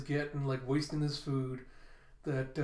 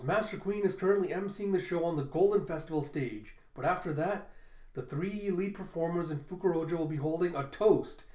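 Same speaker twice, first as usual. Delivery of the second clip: announcer voice; 3 semitones higher, 3 dB louder than usual. Acted. Bao Huang briefing Kaido on the festival schedule, lightly announcer-like. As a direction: rattle off the itinerary like a dutiful herald.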